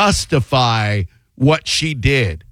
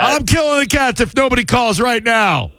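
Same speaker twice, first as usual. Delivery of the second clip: high mock shout of a threat; hammed-up on-air ultimatum; Bob Lassiter; 6 semitones higher than usual. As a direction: holler it like a radio shock jock. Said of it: "I'm Bob Lassiter".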